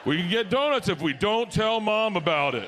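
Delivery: mock-cheery, pitch swooping up; hammed-up upbeat dad offer; put-on perky parent. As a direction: chirp it to the kids, coaxing. Hungover parent chirping to kids in car.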